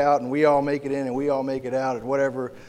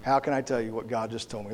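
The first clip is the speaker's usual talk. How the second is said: hesitant, then quicker and softer; squirming Samuel, lightly acted; 3 semitones lower, 4 dB quieter than usual. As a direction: lightly act out squirming reluctance, sinking to a quick murmur. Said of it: "Samuel is just squirming like".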